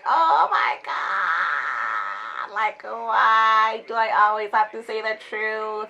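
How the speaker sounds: drawn out, half sobbing through laughter; cringing at her own story, laughing and wailing; laugh-crying groan. Real, not acted. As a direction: whine it out in mock despair. Dreading the next embarrassing story.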